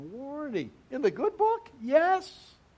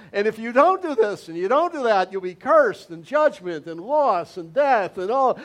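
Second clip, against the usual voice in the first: loud, stern warning; warning of curses; 3 semitones higher, 8 dB louder than usual. Retold or imitated. Pastor voicing God warning Israel of curses, loud and stern. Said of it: "it was like God, s-, uh, through Moses".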